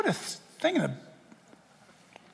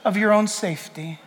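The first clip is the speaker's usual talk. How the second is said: soothing Antichrist. Retold or imitated. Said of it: "the Antichrist is gonna say something to the effect".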